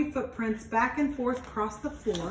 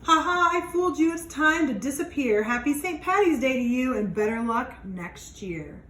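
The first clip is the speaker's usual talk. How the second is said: high, loud teasing leprechaun; gloating leprechaun; 3 semitones higher, 4 dB louder than usual. Acted. Leprechaun mocking the children he tricked, gleeful and loud. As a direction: crow over the trick, then fade to a cheeky goodbye.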